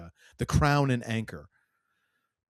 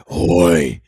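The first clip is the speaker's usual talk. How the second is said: very loud, low growled bellow; deep diaphragm voice; 4 semitones lower, 15 dB louder than usual. Retold or imitated. Imitating a deep-voiced tough guy for the co-host, deep bellow. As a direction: boom it from below the diaphragm. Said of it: "right below your diaphragm is where that comes".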